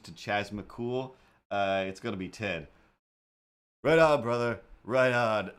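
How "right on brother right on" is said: lightly voiced old man; gruff cheer of an old guy. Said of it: "that's an old man voice".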